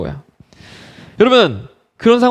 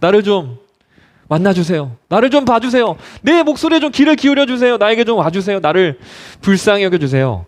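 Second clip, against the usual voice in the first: earnest pleading; 2 semitones higher than usual. Acted. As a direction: beg earnestly, phrase by phrase. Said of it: "더 간절하게 예수님을 부릅니다".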